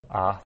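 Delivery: "a" held as a long open vowel. Shown as a demonstration. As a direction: sound out a long "a" on its own. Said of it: "macron over the A indicates a long vowel".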